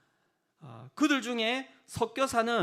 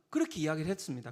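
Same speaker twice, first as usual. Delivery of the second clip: ordinary talk, nothing marked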